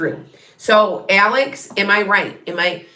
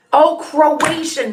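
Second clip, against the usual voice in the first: surprised realization; 9 semitones higher, 4 dB louder, much slower than usual. Real, not acted. Viewer reveals grandfather's language.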